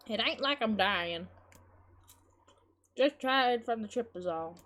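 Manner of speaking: slow drawl in a put-on accent. Grandmother reassuring worried girl, slow folksy accent. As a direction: slip into a folksy accent, drawn out. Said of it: "I don't know why I've got into an accident now".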